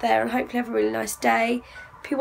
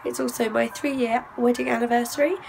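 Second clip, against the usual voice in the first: hoarse, lost voice; speaking with a lost voice. Real, not acted. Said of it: "as you can hear, I have lost my voice".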